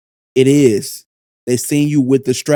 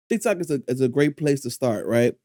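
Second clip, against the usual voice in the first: chewing gum while talking; 4 dB quieter than usual. Real, not acted. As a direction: gum in the mouth. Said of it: "I'm chewing gum".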